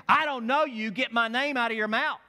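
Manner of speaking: high, loud, indignant dog voice; acted feisty warning, hitting each phrase hard; Maggie. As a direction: tell off a stranger as an affronted dog. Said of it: "but she's saying".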